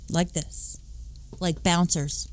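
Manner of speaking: a quick breathy whisper, almost secret; whispered aside. Real, not acted. Whispering a joke to the audience about guarding the door. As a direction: drop to a whisper for the punchline.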